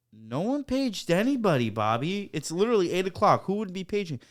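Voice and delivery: mock incredulous denial. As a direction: deny it as if it's absurd. Acted denial to coworker.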